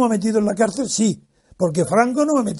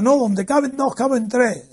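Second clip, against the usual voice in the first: mild mock yell, higher in pitch; shouting back; 4 semitones higher than usual. Friend insisting he will join lunch, in a mild mock yell. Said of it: "también a grito".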